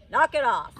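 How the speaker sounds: loud, fed-up order; sharp snap. A narrator's reading. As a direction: cut her off hard. Cheese man snaps.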